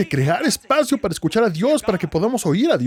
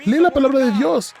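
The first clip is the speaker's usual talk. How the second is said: "Lee la palabra de Dios" higher and louder, rising; emphatic command; 7 semitones higher, 3 dB louder than usual. Shown as a demonstration. Preacher urging the congregation to read, loud and rising. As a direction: call it out to the whole room. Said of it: "¿Quieres saber cómo suena Dios?".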